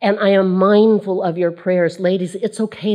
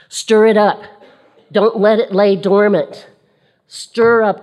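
rousing call; 2 semitones higher, 4 dB louder than usual. Real, not acted. Urging the congregation.

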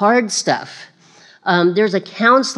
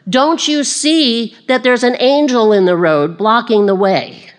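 higher, emphatic scolding donkey; talking donkey; 5 semitones higher, 4 dB louder than usual. Acted. Donkey warning Balaam of the angel, exasperated. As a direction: act out an exasperated donkey, easing down at the end. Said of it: "the donkey was talking to him".

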